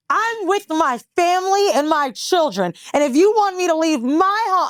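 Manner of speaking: high, affected mock-indignant voice; doctor with attitude. Doctor refusing to leave his family, high mocking attitude. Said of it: "I ain't like his attitude".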